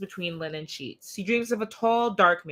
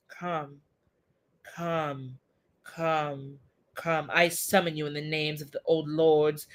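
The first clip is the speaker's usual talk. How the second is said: summoning incantation. Acted. Magician summoning Death by the names of old lords, solemn incantation. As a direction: call up a dark lord with ritual weight.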